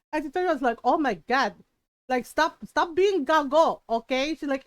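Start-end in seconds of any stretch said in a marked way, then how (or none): 0.8-4.3 imitating a mildly exasperated Filipino mom; lightly put-on accent, telling them off; annoyed mom. Mom telling the titas to stop being silly, annoyed. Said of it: "My mom got annoyed".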